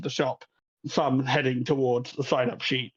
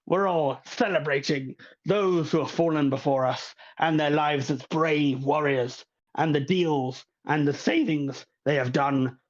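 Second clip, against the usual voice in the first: lightly voiced festival host, grand; a hint of a flamboyant host welcoming the crowd; showman host; 2 semitones higher than usual. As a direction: announce like a showman. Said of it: "starts appearing on stage going".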